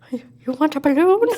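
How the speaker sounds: slow, high clown voice; mock-creepy clown impression; luring clown. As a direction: dangle the offer teasingly, drawn out and high. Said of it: "he draws them in 'cause he's like".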